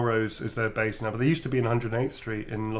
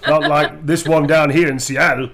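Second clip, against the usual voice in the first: put-on Seattle accent, louder; hammed-up Seattle accent with laughter; badly faked Seattle talk; 2 semitones higher, 7 dB louder than usual. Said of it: "That's not how people in Seattle talk".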